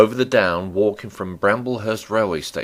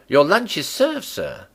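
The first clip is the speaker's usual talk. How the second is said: high, loud call; 9 semitones higher, 4 dB louder than usual. A narrator's reading. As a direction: call it out across the room. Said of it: "and called, rather than said to him".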